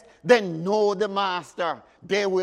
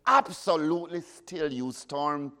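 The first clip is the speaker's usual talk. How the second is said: commanding Jesus; 3 semitones lower than usual. Acted. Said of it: "Another one says".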